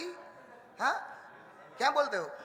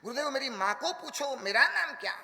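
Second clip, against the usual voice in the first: higher, louder excited request; son's urgent request, voiced louder; eager retold plea; 5 semitones higher, 4 dB louder than usual. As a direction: build excitement as the son repeats it. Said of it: "तुतलाती थी".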